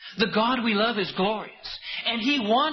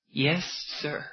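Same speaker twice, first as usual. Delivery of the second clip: meek obedience; 5 semitones lower than usual. Retold or imitated. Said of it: "You say".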